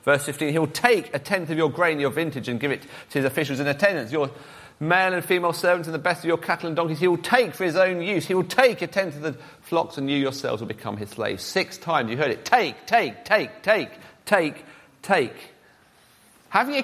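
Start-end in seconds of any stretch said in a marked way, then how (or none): 0.5-11.4 "take" leaned on in a running read-out; emphasize "take" every time; stress on take. Shown as a demonstration. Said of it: "if I emphasize the words". 12.4-15.3 each "take" a separate, falling beat; "take" hammered out one at a time; stress on take. Shown as a demonstration. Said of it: "if I emphasize the words".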